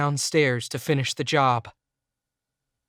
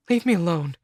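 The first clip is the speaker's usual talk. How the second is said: louder, higher shout; 5 semitones higher, 5 dB louder than usual. A narrator's reading. Cindy shouting at both men before storming off. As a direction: yell it through tears. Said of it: "she shouted".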